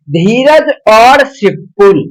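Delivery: very slow, every word spaced out; slow dictation. Shown as a demonstration. Teacher dictating an example to students, very slow. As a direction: spell out धीरज और सिपुल slowly for notes. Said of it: "जैसे कि देखिएगा".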